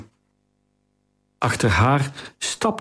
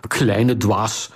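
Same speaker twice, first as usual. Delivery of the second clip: ordinary delivery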